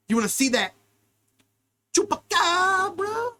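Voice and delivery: teasing. Pretend. Teasing about the chupacabra.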